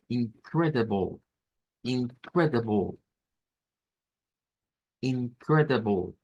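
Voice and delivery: incredible, said slowly as in-KRE-de-bol; teacher repeating a vocabulary word; slowed model word. Shown as a demonstration. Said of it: "la siguiente".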